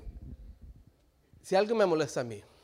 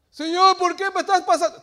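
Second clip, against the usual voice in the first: loud mock pleas; 10 semitones higher, 15 dB louder than usual. Acted pleas and answers.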